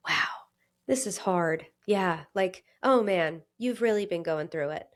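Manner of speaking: hushed, gentle and kind; self-compassion. Retold or imitated. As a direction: comfort yourself like a hurting friend. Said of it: "There's self-compassion there".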